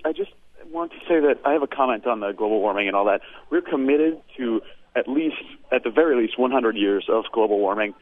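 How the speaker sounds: winded caller, short of breath; out of breath, talking between breaths. Real, not acted. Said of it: "I'm catching my breath".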